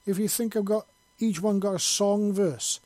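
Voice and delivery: proud angry Scot listing his scars; indignant and proud. A narrator's reading. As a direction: boast and scold at once, full brogue. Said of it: "with a mixture of indignance and pride".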